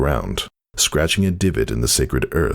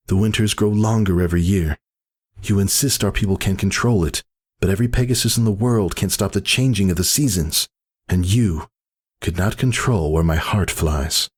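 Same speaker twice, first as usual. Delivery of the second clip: higher, earnest pleading defiance; defiant mare; 7 semitones higher than usual. A narrator's reading. Whisper to her brother, earnest and defiant. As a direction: argue for her freedom.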